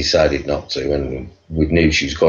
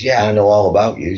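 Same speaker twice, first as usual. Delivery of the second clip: put-on American accent, raised pitch; imitated American accent; 5 semitones higher, 3 dB louder than usual. American security woman telling him she knows him, mock American accent. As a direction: mimic a knowing American girl. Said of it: "I have to do this accent".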